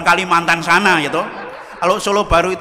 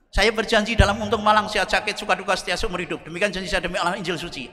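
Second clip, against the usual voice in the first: steady groom; 4 dB quieter than usual. Retold or imitated. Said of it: "Yang laki tegar".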